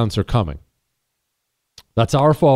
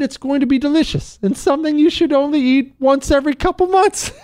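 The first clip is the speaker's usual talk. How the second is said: laughing punchline; 11 semitones higher than usual. Real, not acted. Joke punchline about Taco Bell.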